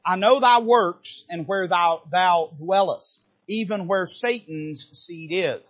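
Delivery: slow, measured scripture read. Acted. Pastor reading the verse to the church, solemn and measured.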